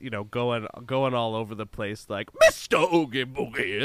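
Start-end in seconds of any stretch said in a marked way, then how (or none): 2.4-3.8 Oogie Boogie voice. Retold or imitated. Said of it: "sound horrible like that".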